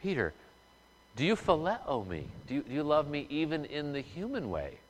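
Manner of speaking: Jesus gently asking Peter a third time; gentle Jesus. Acted. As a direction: ask tenderly, as a patient teacher. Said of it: "but Jesus this time is gentle".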